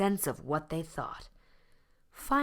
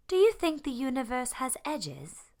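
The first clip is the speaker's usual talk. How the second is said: high, quacking duck voice; quacked question; 9 semitones higher, 3 dB louder than usual. A narrator's reading. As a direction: wonder aloud like a little duck. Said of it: "quacked Mary Ann".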